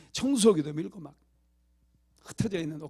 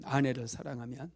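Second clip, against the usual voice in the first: ordinary delivery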